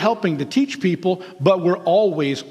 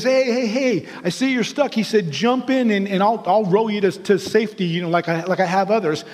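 friendly rowboat rescuer. Acted. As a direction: hail him cheerfully from the boat. Rowboat man calls to stranded man.

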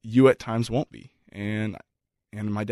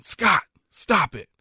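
high, slow imitated call of mom; 9 semitones higher, slower than usual. Mom at the field calling to dad, slow high plea. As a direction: plead slowly in a higher mock mom voice.

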